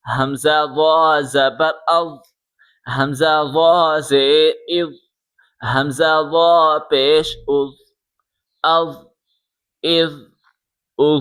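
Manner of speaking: او said gently, tongue tip touching the upper teeth; soft with tongue on teeth. Shown as a demonstration. Teacher showing students the soft letter with the tongue tip on the teeth. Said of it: "زبان کی نوک اوپر کے دانتوں سے touch کر کے".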